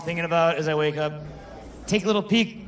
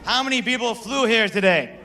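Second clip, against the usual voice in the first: louder, with more energy; louder retry; 4 semitones higher than usual. Shown as a demonstration. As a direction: ask again with more energy. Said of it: "let me try again".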